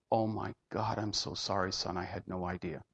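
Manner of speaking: low, hushed, understated tearful apology; quietly moved, voice sinking away; retold crying. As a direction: softly retell a crying father's words. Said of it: "cried like a baby".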